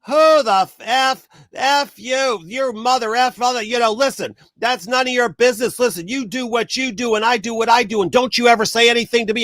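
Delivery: mock rant at a nosy stranger; retold furious outburst. Maskless man yelling at the speaker in the store, imitated angry tirade. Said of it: "this guy just explodes all over me".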